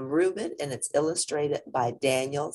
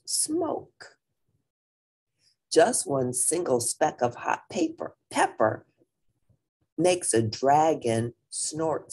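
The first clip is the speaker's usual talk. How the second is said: lively storybook reading; reading to children. A narrator's reading. Teacher reading a picture book to the class, lively. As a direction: read it out to the kids, bright and clear.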